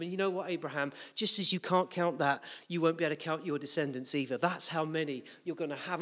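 a hint of a smiling father; gentle reassurance. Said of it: "just gently saying to him".

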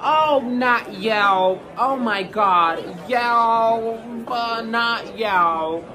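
very slow, hammed-up moaning; mock despair. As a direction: drag out every word in fake anguish. Agent mock panic over review.

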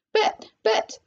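high, stammering alarm; shrieked. A narrator's reading. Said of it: "shrieked Missus Salt".

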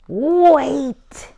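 loud high call to stop them. Acted. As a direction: stop them in their tracks. Purple stops the others.

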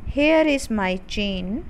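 put-on very slow, measured children's poem recital; poem recitation. Shown as a demonstration. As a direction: recite it slowly, line by line, for pupils to repeat. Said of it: "चलिए recite करते हैं". (बहुत धीरे-धीरे कविता पाठ)

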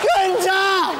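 high, loud cry of the name; exasperated shout. Acted. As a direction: shout it in comic despair at a hopeless pupil. Exasperated at contestant's repeated mistake.

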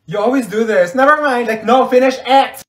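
high, loud frustrated outburst; worked-up nagging; exasperated complaint. Acted. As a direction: demand it with rising exasperation. Acted quarrel over withheld secret.

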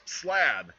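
short shouted command; yelled call. Retold or imitated. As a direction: call slab out to a builder. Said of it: "One person yells".

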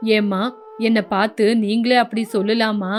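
the fed-up husband pouring out grievances to his mother; lightly voiced son.

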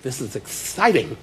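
slow, flat-toned imitation of his wife; lightly voiced bored wife; wife's bored voice. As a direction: mimic a wife who finds it dull. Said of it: "she talks like this".

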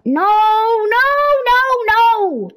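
high, loud no no; high frantic no; 1 panicked shout. Real, not acted. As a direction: protest loudly. Villager taking something.

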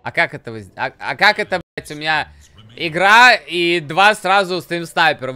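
loud outraged shouting; raging gamer. Real, not acted. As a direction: yell at the stream snipers. Streamer furious at stream snipers.

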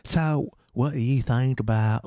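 slow, drawn-out Austin twang; half-managed Austin drawl, words stretched out. Retold or imitated. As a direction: attempt an old-time Austin accent. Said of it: "Todd has the most Austinite accent".

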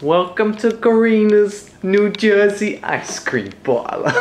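put-on New Jersey accent. Welcoming customers to the parlour, mock New Jersey accent. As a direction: overplay a New Jersey shop host. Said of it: "come stand by the ice cream and do it".

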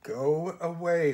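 slow, cold dismissal; coldly. Acted. Susan coldly dismisses the rat and the raven. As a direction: push the words out slowly and flatly cold. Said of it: "said Susan coldly".

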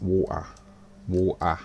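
"water" with the t dropped, "waw-ah"; local pronunciation of water. Shown as a demonstration. Looking at all that water, local "waw'ah" pronunciation of "water". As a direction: say "water" his home way, as "waw'ah". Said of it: "That's how we say water".

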